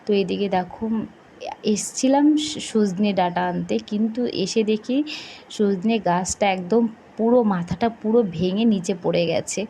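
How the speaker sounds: talking with a toothbrush in mouth; while brushing teeth. Real, not acted. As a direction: speak around a toothbrush. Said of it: "brush করতে করতে চলে এসেছি ছাদে".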